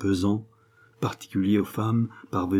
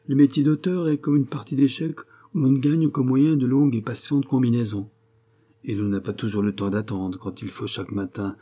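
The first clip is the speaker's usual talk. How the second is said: lightly voiced cynical mentor; a touch of animated sarcasm; sarcastic friend, lecturing; 2 semitones higher than usual. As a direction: warn a younger writer with mild scorn.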